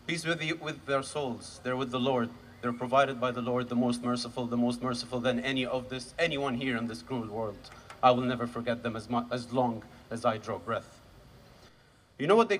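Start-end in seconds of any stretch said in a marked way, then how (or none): 0.1-11.0 low, subdued blessing; solemn mourning. Real, not acted. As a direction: lower the voice as if praying for the dead. Prayer for killed relatives.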